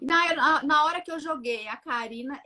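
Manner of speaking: ordinary delivery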